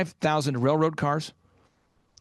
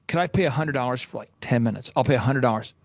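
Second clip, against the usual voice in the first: low-pitched, imitated teenage plea; lightly acted haggling for a few minutes; retold humble begging, voice dropped low; younger self pleading; 7 semitones lower, faster than usual. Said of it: "I'm eighteen-year-old version of myself".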